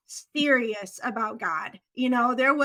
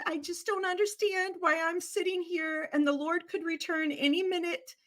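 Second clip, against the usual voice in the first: grandma's lament; 4 semitones higher than usual. Retold or imitated. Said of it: "And she said".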